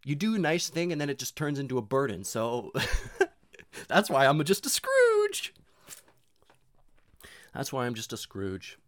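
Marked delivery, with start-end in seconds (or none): 3.3-5.5 louder, slowed, laughing through it; laughing admission, louder. Real, not acted. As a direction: laugh the confession out.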